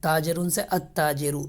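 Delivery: अत्ताजिरु with doubled त, no लाम; sun letter assimilation. Shown as a demonstration. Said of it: "लाम नहीं पढ़ा जा रहा". (अत्ताजिरु में लाम नहीं, त पर तशदीद)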